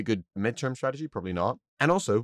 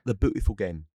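bad English accent. Shown as a demonstration. Podcaster showing how the English say football's nickname, bad English accent. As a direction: put on a badly faked English accent. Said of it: "that was a bad English accent".

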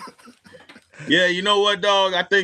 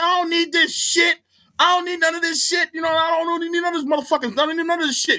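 mock J B rant; 12 semitones higher than usual. J B Smooth yelling at the booing crowd, hammed-up outburst. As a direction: blow up at the crowd like you don't need them.

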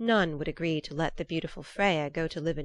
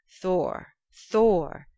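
calling out; 2 semitones higher, 7 dB louder than usual. Acted. Gods calling out Thor's name.

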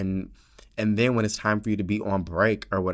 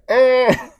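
choked emotional squeak; 13 dB louder than usual. Real, not acted. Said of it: "I'm gonna start crying".

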